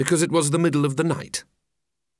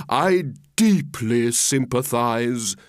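slow, drawn-out mock sorrow; hammed-up heartfelt condolence; tearful sympathy; 3 semitones lower, slower than usual. Walrus pities those he eats, mock-tearful. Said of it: "With sobs and tears".

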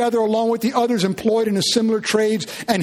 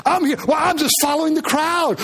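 clueless crowd member; 5 semitones higher than usual. Retold or imitated.

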